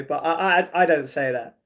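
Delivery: ordinary talk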